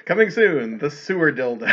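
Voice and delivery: movie trailer announcer tease. Pretend. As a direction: hype it like a coming attraction. Mock movie trailer tagline.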